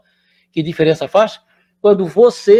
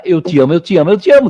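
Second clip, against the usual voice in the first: joyful repeated love; 5 dB louder, faster than usual. Retold or imitated. Father greets newborn son.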